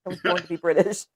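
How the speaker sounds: low-key put-on British accent. Shown as a demonstration. Claiming a British birthright, put-on British accent. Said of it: "It sounds better".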